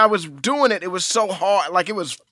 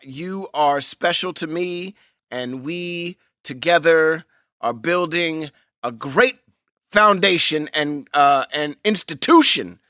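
mock sincere; 3 semitones lower, slower than usual. Addressing followers earnestly.

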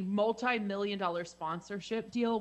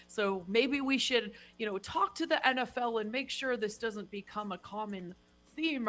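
obnoxious executive voice. Retold or imitated. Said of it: "this obnoxious executive voice thing".

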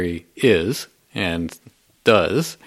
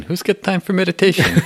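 put-on higher, brash New York accent, scoffing; lizard brain with accent; 9 semitones higher, 3 dB louder than usual. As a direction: scoff at meditation as Larry, New York style. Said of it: "speak as if you are Larry the Lizard".

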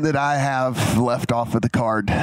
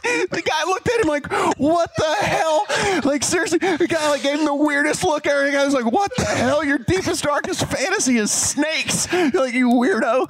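much higher, mock disgust over laughter; laughing through words; 13 semitones higher than usual. Real, not acted. Teller laughing while voicing the host's disgust.

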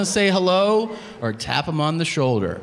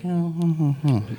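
mock soft moaning; 3 semitones higher than usual. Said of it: "Not one of these, like".

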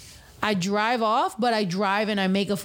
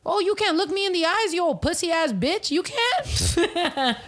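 higher, sing-song jeering, laughing at the end; mocking taunt; 6 semitones higher than usual. Imagined taunt at the crackhead who looks down, higher jeering mockery. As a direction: rub it in with scorn.

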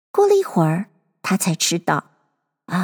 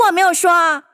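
hasty; 7 semitones higher, faster than usual. A narrator's reading. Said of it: "急忙地插嘴道".

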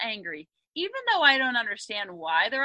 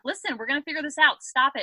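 snappy; 3 semitones higher, 3 dB louder than usual. Retold or imitated. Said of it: "I start getting snappy".

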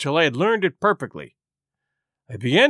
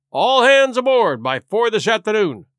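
called loudly after him; shouted; 4 semitones higher, 4 dB louder than usual. Acted. Squire calls after Silver leaving, a loud shout. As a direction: squire calling down the passage, voice raised. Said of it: "shouted the squire after him".

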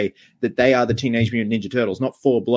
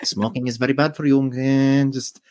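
Pepe voice; 4 semitones higher than usual. Retold or imitated. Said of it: "Pepe's like".

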